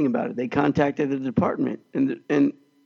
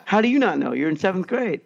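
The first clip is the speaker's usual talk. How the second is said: higher-pitched retold disbelief; incredulous; 4 semitones higher than usual. Teacher baffled by seventh-grader, incredulous. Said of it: "I was just so blown away".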